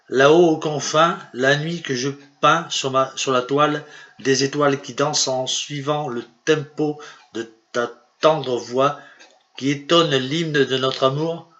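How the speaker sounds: measured, declaimed love poem; poem recitation. Acted. Poet reading his own love verse to viewers, declaimed. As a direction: read it out as lyrical verse, phrase by phrase.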